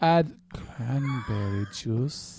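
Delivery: slow, low, sexy, sultry reading voice. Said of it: "In a sexier voice".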